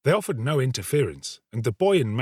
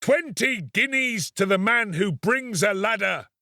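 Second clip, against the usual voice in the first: a higher call over the crowd; lightly raised rider's call; raised voice above crowd; 9 semitones higher than usual. Acted. Horseman calls over the crowd, lightly raised offer. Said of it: "in a voice that rose above all others".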